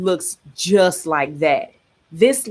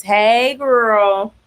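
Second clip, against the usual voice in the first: put-on light sassy "Hey, girl" pitched up a bit; a hint of a sassy girlfriend greeting; black girl voice; 3 semitones higher, 3 dB louder than usual. Reading a comic line aloud in a sassy girl voice. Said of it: "I automatically hear it in a black girl voice".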